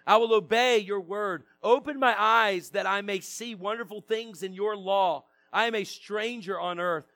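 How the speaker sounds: measured public Bible reading; scripture reading. Real, not acted. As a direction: read the psalm out to a congregation, phrase by phrase. Reads psalm aloud to congregation.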